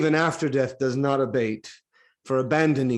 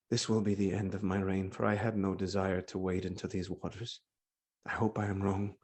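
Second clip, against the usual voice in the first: much softer, lower, resigned; quiet dread; 7 semitones lower, 10 dB quieter than usual. Acted. King privately fears the end of his reign, hushed and low. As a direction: sink into a hushed dread of ruin.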